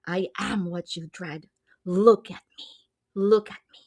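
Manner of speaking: lightly menacing creature taunting its prey; creepy voice. Retold or imitated. Unseen creature taunting Farah to look, creepy voice. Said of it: "this creature with a creepy voice".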